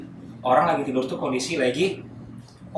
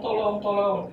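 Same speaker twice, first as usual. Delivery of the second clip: high-pitched mock cry for help; long, high call; screaming for help; 8 semitones higher, slower than usual. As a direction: re-enact a drawn-out yell. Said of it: "masih teriak-teriak tuh".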